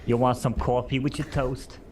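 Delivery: lightly voiced Jetsons robot maid; chirpy robot housekeeper greeting; Rosie robot maid voice. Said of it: "That was really good".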